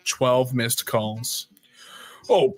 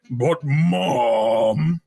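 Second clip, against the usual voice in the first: tearful whining protest; whiny child cry; 2 semitones lower than usual. Acted. Child whining to mom about dwarves. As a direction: whine like a child begging mom.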